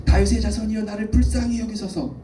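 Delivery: high, impassioned crying out; wailing cry. Acted. Pastor acting blind Bartimaeus pleading to Jesus, wailing cry. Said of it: "울부짖는 소리를 질렀을 것 같아요".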